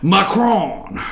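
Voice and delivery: Macron drawn out slowly, stressed on the last syllable; mock-French pronunciation. Shown as a demonstration. Radio host showing listeners how to say the French president's name, Macron in showy French. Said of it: "You gotta say it like that".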